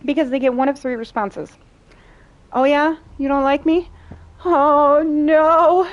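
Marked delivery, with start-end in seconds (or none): 2.5-5.9 high, loud sarcastic fake distress; mock the troll with fake despair; mock condescending. To a troll, a loud mock-wounded sneer. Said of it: "I will fake cry and be the most condescending".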